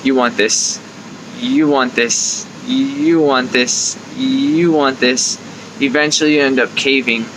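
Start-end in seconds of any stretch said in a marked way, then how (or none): 0.0-5.4 slow, drawn-out inner craving voice; tempting inner voice. Acted. Inner sugar craving tempting you in the frozen aisle, slow and insistent. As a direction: let the craving voice pull at you slowly. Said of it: "that voice gets louder and louder".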